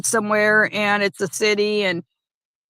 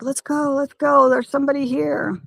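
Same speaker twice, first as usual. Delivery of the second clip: voicing the dog; 4 semitones higher than usual. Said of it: "She's like".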